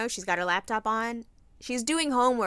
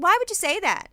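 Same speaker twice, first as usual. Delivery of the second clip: higher, louder scolding question; mock scolding; 8 semitones higher, 5 dB louder than usual. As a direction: scold the kid with mock shock. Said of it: "I said".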